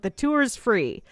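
slow, dazed repeat of The tour's free; mock entranced echo. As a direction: echo it like a hypnotized man. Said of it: "And the tour guide's like".

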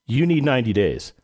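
retold emphatic insistence, each word firmly placed. Radio manager tells recovering host to rest, emphatic. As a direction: quote a colleague insisting, with a falling finish. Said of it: "Emphatic about it".

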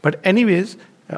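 ordinary talk

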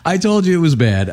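high, laughing admission. Real, not acted. Teller owns the bad joke to the host, laughing. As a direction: laugh it out, amused at yourself.

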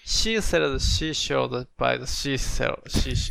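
"seashore" stumbling into repeated SH, "shishi"; slow attempt, "sea" in "seashells" muddled into "she"; tangled SH sounds. Real, not acted. Student failing the tongue twister for teacher, "seashore" tangled into "shishi". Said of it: "シシトウになってるよ".

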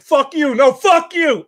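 high, loud mock argument; hammed-up indignant back-and-forth; acted New York quarrel.

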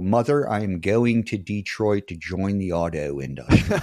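put-on slow movie-character Baltimore accent; Gator. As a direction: draw out thick Baltimore vowels. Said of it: "Gator in Female Trouble".

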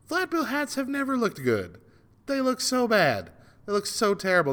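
high-pitched exasperated tirade; worked-up rant. Real, not acted. Host ranting about flat bill hats, worked-up. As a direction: rant with the pitch pushed right up. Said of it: "I went off on a tirade on hats".

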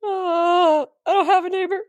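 high sassy voice; high mocking party girl. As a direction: sass the neighbor through the door. Drunk girl answering door.

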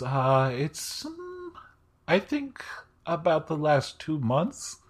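Alem's voice. Acted. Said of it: "And Alem goes".

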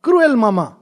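lightly acted child's wail of reproach; crying child. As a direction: accuse mother like an upset child. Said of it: "the child is crying".

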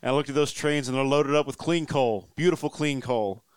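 Donald Trump impression. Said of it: "It's a dumb Donald Trump quote".

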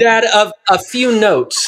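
high, slowed little critic; five-year-old critic. Acted. Five-year-old giving Dad notes on his reading, as a high-voiced critic. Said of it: "the critics are gonna be your five-year-olds".

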